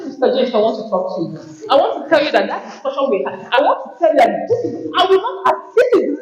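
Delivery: half-laughing as you confront Mister James; a colleague confronting Mister James, laughing; laughing complaint. Retold or imitated. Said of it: "You come outside the meeting and say".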